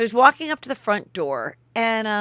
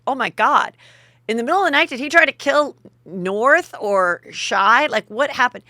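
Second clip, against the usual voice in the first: higher, animated mock alarm; hammed-up disbelief, pitch jumping up; mock shock; 4 semitones higher, 5 dB louder than usual. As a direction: imitate scandalized people reacting. Imitates shocked public reaction.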